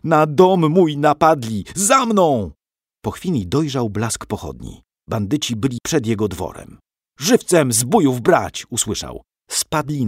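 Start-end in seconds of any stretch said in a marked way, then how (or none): 0.0-2.5 high, loud battle cry; rally the riders with a fearful yell; young man shouting to his men to ride; terrible shout. A narrator's reading. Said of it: "krzyknął strasznym głosem". 7.2-8.7 loud, slow command shout; battle order. A narrator's reading.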